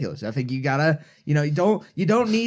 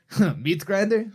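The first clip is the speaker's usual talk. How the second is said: put-on quick jokey Russian accent, slightly higher; mock Russian accent; 3 semitones higher than usual. Joking about Soviet generals, in a mock Russian accent. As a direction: toss it off in a playful fake Russian accent. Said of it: "I just totally just made a Russian accent".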